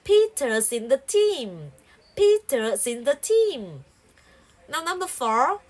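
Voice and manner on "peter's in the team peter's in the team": Peter's in the team. with in and the run together; linked speech. Shown as a demonstration. Teacher showing linking in Peter's in the team., smooth. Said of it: "you can link".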